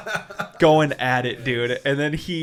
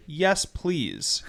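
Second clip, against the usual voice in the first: softly polite, lilting reply; mild put-on politeness; 3 semitones higher, 4 dB quieter than usual. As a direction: answer with careful courtesy. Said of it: "You're being polite now".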